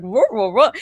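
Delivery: lightly imitated cartoon dog noises; Snoopy. Thrown voice behind his ear, light cartoon dog imitation. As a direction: make quick wordless dog-like sounds. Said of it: "like a Snoopy voice".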